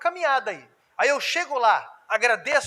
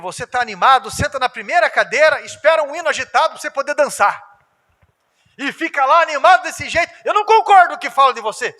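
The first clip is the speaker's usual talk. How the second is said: mock flatterer; 4 semitones higher, 6 dB louder than usual. Dissimulator flattering, voiced.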